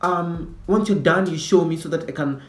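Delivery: a hint of a smug snitch; teacher's pet. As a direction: tell them primly what teacher said. Teacher's pet bossing classmates.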